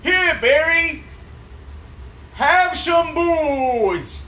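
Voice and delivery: slow, drawn-out dictation; dictating. Shown as a demonstration. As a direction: spell it out slowly for the writer. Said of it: "Read that back to me".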